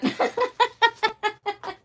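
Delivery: high-pitched amused giggle; high laugh. Real, not acted. Laugh about husband.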